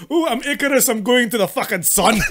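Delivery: mock Scottish Icarus. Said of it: "it's like".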